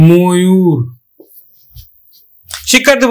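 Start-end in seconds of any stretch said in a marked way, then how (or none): 0.1-0.8 ময়ূর said "mo-yur", first vowel a rounded o; careful teacher's "mo-yur" for ময়ূর; closed O sound. Shown as a demonstration. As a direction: demonstrate ময়ূর with a held "mo", then "yur". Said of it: "তা আমরা উচ্চারণ করব".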